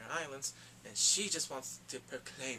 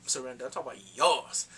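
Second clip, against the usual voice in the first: sassy comeback; 5 dB louder than usual. Retold or imitated. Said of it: "And he's like".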